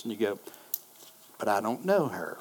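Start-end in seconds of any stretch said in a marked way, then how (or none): 1.4-2.4 soft, low, hesitant objection; reluctant protest. Acted. Believer nudged to talk to a stranger, acted quiet reluctance. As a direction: shrink back quietly in mock reluctance.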